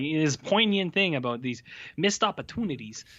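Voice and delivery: a vague put-on accent; lightly voiced mystery accent quoting Allen; unknown accent. Host mocks Woody Allen's description, in a vague put-on accent. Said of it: "I don't know what accent I'm doing right now".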